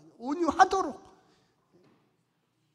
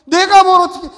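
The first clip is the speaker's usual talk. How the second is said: louder, higher indignant burst; mock angry outburst; 6 semitones higher, 13 dB louder than usual. Preacher acts out a believer's angry urge for revenge. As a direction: blurt it like someone itching to retaliate. Voicing angry self-will.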